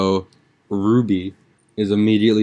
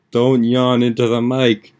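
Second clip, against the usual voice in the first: higher, louder, slow playful scolding; mock scolding; 5 semitones higher, 6 dB louder, slower than usual. Real, not acted. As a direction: scold her teasingly for yawning. Scolding friend for yawning.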